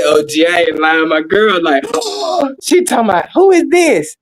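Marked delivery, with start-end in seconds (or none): 1.9-2.6 high-pitched imitated gasp; mock gasp. Imitates girlfriend's reaction on phone. 3.3-4.2 put-on high-pitched girlfriend voice, questioning; imitated girlfriend. Imitates girlfriend answering the call.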